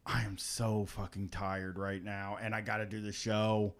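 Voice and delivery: quiet, tired inner grumble; retold exhaustion. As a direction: say it drained, low and dragging. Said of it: "I was just like".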